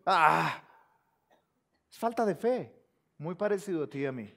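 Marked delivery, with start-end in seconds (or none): 0.1-0.6 loud, exaggerated "ah"; mock doubting sigh. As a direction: imitate Gideon's sceptical sigh. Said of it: "Eso es lo que hace Gedeón ahí".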